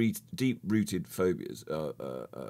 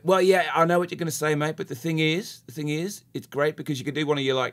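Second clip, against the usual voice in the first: put-on Australian accent. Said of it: "That was my Australian accent".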